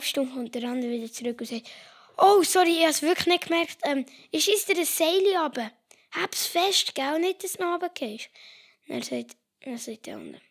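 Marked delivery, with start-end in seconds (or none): 2.2-8.3 higher, hurried apology; apologetic climber. Acted. Climber apologizing to his friend in the crevasse, higher and hurried. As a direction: babble a sheepish sorry.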